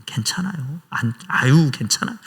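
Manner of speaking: mock-calm brush-off to God; fake nonchalance. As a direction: pretend everything's fine while it isn't. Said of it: "아무렇지도 않은 듯".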